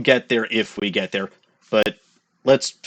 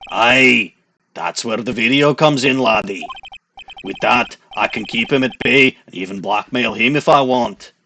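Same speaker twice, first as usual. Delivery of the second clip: put-on Scottish accent. Scotchworth gloating to the lawyer about his blackmail video, in a Scottish accent. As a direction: roll it out as a smug Scottish schemer. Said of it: "try to give him a Scottish accent".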